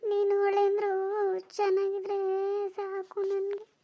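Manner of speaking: slow, tearful, voice catching on sobs; crying. Acted. Mother to her daughter about her son-in-law, tearfully crying. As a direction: weep through the words as a grieving mother. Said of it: "ಅಳ್ಬೇಡ ಸುಮ್ನೆ".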